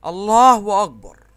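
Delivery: loud, slow, drawn-out cry of victory; joyful shout. Real, not acted. Gamer cheering his team's win, loud slow shout. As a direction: stretch it out in triumph. Celebrating winning the match.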